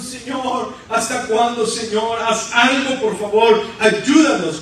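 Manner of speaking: imitated cry of desperation, not real weeping; Gideon's tearful plea. Gedeón crying to God while threshing, acted urgent plea. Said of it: "Gedeón está llorando".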